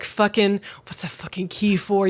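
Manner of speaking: hushed, unvoiced cursing; exasperated whisper. Fan demanding what the key is for, exasperated whisper. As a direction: whisper the question in mock exasperation.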